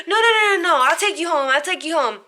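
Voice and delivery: mock panic that calms down by the end; panicked backpedal. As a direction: imitate him scrambling to agree. Guy panics about jail threat.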